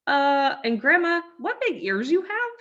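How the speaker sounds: put-on high, uneasy little girl; nervous young girl asking. Red uneasy at the bed.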